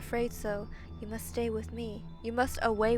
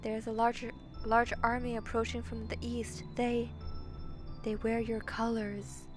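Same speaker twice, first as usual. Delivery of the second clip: grave monster warning; 8 dB quieter than usual. Acted. Monster warns princess of an approaching army, gravely. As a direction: break the news quietly and gravely.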